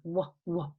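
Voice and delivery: short, separate "wuh" sounds for "w"; isolated letter sound. Shown as a demonstration. Teacher shows pupils the beginning sound, "w" as a short wuh. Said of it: "gotta be the beginning sound in a word".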